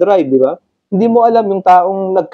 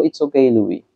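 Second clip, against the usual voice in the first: calming self-talk; 5 semitones lower, 4 dB quieter, slower than usual. Retold or imitated. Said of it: "Sabi ko sa sarili ko".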